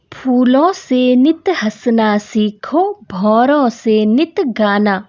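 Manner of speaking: put-on slow, measured verse reading for children; unhurried classroom recitation of verse; poem recitation. Shown as a demonstration. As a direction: recite each phrase slowly and deliberately.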